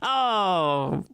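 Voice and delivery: slow, drawn-out fake gladness; half-hearted pretend relief; feigned relief. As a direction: cover secret disappointment with dragged-out words. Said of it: "I'm secretly kinda disappointed".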